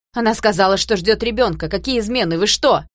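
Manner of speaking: loud, fervent denial; heated exclamation. A narrator's reading. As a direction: burst out hotly in protest. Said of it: "потом горячо воскликнул".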